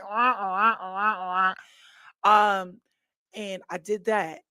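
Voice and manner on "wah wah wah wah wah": mock wah wah. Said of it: "and you like".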